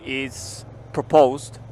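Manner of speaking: "proposed" said very slowly; stress on proposed. Real, not acted. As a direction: drag out "is proposed" deliberately. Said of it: "that's the key word".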